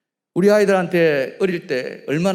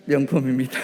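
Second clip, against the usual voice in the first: said out clearly and louder for the congregation to repeat; louder call-and-response demo. Shown as a demonstration. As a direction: model the line firmly and louder. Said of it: "시작".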